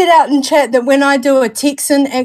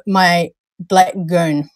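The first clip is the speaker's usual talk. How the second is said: slow, drawn-out Kiwi "black goon"; Kiwi accent; 4 semitones lower, much slower than usual. Shown as a demonstration. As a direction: lean into the Kiwi accent, slowly. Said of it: "the Americans like to hear me talk about".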